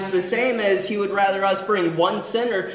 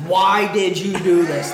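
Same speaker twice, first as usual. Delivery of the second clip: loud, high, laughing accusation; panicked sailors; 3 semitones higher, 7 dB louder than usual. Acted. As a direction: yell at Jonah through a laugh. Sailors confront Jonah in storm.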